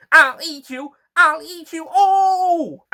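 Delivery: high, loud, slowing roar of threat; raging flytrap. Acted. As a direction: bellow it like a furious monster.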